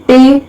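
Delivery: "टे" said as one separate syllable; isolated syllable. Shown as a demonstration. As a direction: sound out "टे" on its own. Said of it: "इंटेलिजेंट में कितने syllable हैं".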